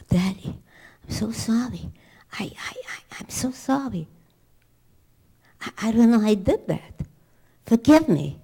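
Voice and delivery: put-on high-pitched pleading child; acted little-kid apology, rising to a loud plea; apologetic child. Child apologizing to father, voiced in example.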